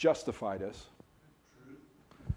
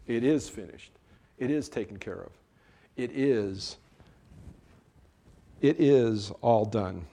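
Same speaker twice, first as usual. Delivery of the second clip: God's answer. Retold or imitated. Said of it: "God says".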